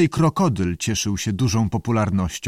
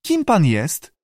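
higher, lightly squawky question; screechy voice; 6 semitones higher, slower than usual. A narrator's reading. Salamander questions the director, screechy. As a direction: ask it in a creature squawk. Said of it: "powiedział skrzykliwy głos".

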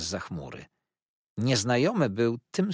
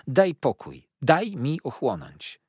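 higher, urgent plea; crying out; 6 semitones higher, 5 dB louder, slower than usual. A narrator's reading. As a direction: plead for a moment to recover. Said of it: "zawołała ciotka". (błagalnym okrzykiem)

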